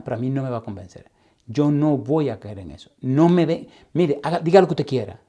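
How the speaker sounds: a woman's angry defiance, hammed up by the teller; retold defiant outburst. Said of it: "Estaba furiosa y furibunda".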